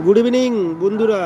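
loud hello to friends; loud greeting. Real, not acted. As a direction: call out the greeting. Greeting live viewers loudly.

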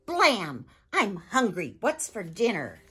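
loud, high, booming Viking chief. Acted. Viking father bursting home demanding dinner, booming. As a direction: bellow like a hungry chief kicking the door in.

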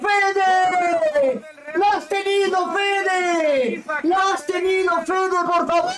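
yelling at the screen; frustrated shout. Real, not acted. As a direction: shout the player's name in frustration. Fan yelling at player on screen.

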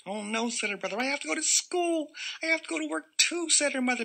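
very high squeaky whine; whiny child. Acted. Brother and mother whining about school and work in a squeaky voice. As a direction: whine like a little kid.

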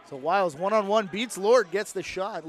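live sportscast surge; excited play call. Real, not acted. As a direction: build excitement as the attacker breaks through. Calling an attacker breaking through.

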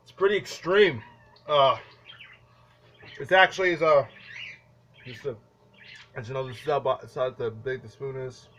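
talking through a dry, powdery mouth. Real, not acted. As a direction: speak with a mouth full of cinnamon. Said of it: "It's really dry".

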